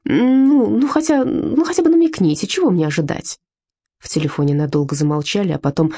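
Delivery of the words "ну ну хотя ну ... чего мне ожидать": eager pleading. Acted. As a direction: pitch climbing, begging for a hint. Pleading, pressing the caller. (настойчиво выпрашивая, всё выше)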